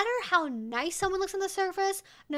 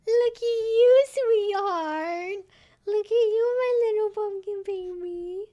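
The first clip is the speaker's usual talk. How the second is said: cooing pet talk; 7 semitones higher, 7 dB louder, slower than usual. Real, not acted. Owner to her pumpkin-costumed dog, high gushing coo. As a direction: coo adoringly, high and loud.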